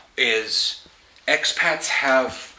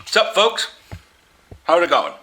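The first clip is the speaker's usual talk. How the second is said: high, bright Pacific Northwest surfer hello; casual Pacific Northwest surfer greeting, pitched up; 5 semitones higher, 4 dB louder than usual. Shown as a demonstration. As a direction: show off your own laid-back surfer talk. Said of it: "I use the term folks".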